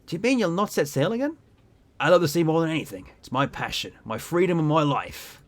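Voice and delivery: lightly voiced passionate sailor; amateur sea captain voice. Captain declares love of the sea, amateur sailor voice. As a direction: have a modest go at a salty captain. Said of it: "I can't do voices, honestly".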